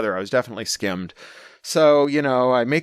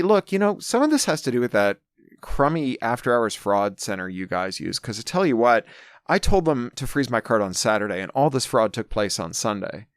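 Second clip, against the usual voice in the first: retold anger. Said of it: "she's pissed, I'm pissed".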